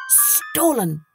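slow, secretive, sinking into a whisper; conspiratorial peasant, ending whispered; hushed warning. Acted. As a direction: scare him with a confidential hush. Peasant scares Hans with rumours.

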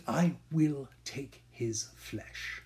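slow, quiet and menacing. Acted. Scene: Shylock quietly vows to take Antonio's flesh. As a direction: let the vow chill the listener.

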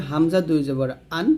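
plain glottal onset on আন, no squeeze; hamza sound. Shown as a demonstration. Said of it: "এটাও হামজা হবে". (হামজা হলকের শুরু থেকে)

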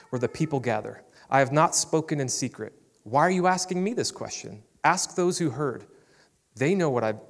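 measured Bible reading to the congregation; scripture reading. Acted. Pastor reading John to the church, measured. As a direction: read the passage with steady weight.

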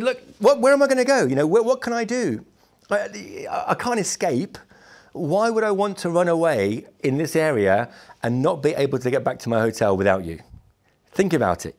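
imitating himself pleading, half-frantic; exasperated retold plea. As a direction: plead with the guard, wound up. Retold pleading with chasing guard.

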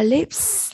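"lips" with a long voiceless final s; teacher's careful "lips", ending on s, not z; hissed s ending. Shown as a demonstration. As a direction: model "lips", holding the sharp s. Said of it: "là âm sờ".

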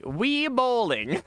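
slow, drawn-out childish mimic; baby voice imitation. Mocking teammate Kimmy's words, slow childish mimic. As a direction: mimic her like a little kid. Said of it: "Little baby Kimmy over here, just like".

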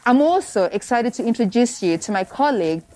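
muffled, talking through a face mask. Real, not acted. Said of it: "You're going to hear my voice muffled".

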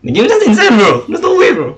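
high, excited disbelief; amazed. Real, not acted. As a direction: marvel at it. Amazed by game chat.

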